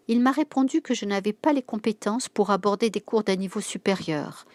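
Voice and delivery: voix vexée. Acted. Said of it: "fulmina Myriam d'une voix vexée".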